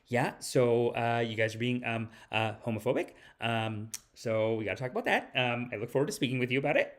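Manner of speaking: low, soft, halting mock politician; mock awkward opener. Comedian mimics visiting leader raising homophobia, awkward and halting. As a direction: mumble through it with ums and hesitations. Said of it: "to open with, like".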